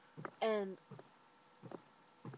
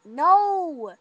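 loud, higher "No"; quick denial; 7 semitones higher, 15 dB louder than usual. Retold or imitated. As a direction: Rachel denying to her boyfriend, loud quick no.

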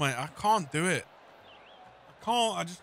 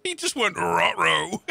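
laughing retort; 3 semitones higher, slower than usual. Real, not acted. Laughing at the commentator.

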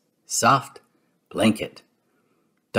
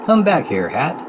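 crying out; 4 semitones higher than usual. Acted. Goofy calls after his hat blown off by wind. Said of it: "cries Goofy".

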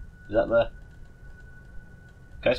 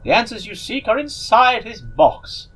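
silly voice; 2 semitones higher than usual. Acted. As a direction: draw it out like a goofy sorcerer. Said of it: "I'm gonna give this person a silly voice".

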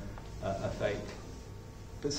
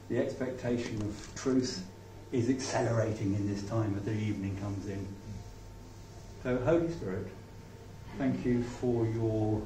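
prayer. Acted. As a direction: pray it gently over the listeners. Prays over the congregation.

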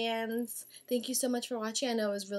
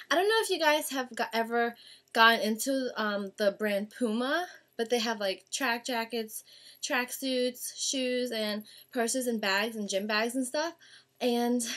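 talking while out of breath; breathless, rushing through the words. Real, not acted. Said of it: "I'm, like, out of breath".

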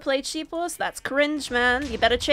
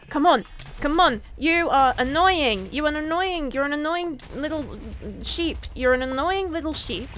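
annoyed; 2 semitones higher than usual. Real, not acted. Annoyed at a player in the game.

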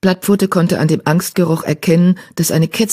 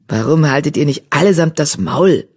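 put-on mildly irritated old tomcat; spitting anger. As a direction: snarl a little, fed up. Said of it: "fauchte der Einzelläufer".

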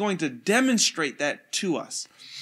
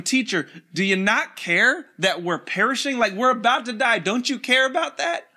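panicked plea; 4 semitones higher than usual. Acted. Disciples panicking in the storm.

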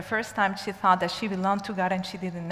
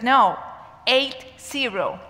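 louder, higher "No", then "eight zero" spelled out slowly; emphatic correction; 3 semitones higher, 5 dB louder, slower than usual. Retold or imitated. Inmate correcting the teacher who misheard eighteen, emphatic. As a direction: stress "eight zero" word by word.

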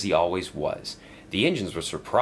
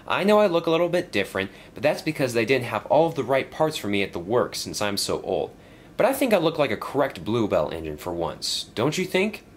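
higher, lively little engine; worried old engine asking Sir Topham Hatt, lightly raised engine voice; young engine voice; 4 semitones higher than usual. Acted. Stepney worried about repairs, asking his boss in a higher voice.

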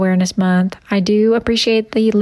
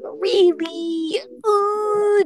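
mock shock; 8 semitones higher, 3 dB quieter, much slower than usual. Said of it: "scolding mock shock".

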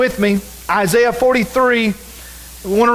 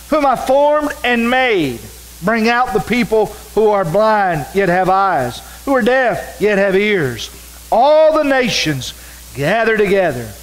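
raised, measured preaching read; preacher reading Isaiah aloud; scripture reading. Acted. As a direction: proclaim the verses to the congregation. Reads scripture aloud in sermon.

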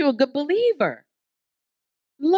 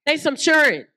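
"churn" said a bit higher in a Southern way; Southern pronunciation; 4 semitones higher than usual. Shown as a demonstration. Preacher repeating the Southern way of saying it. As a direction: repeat "They some churn" with a Southern accent. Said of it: "that's how we say it in the South".

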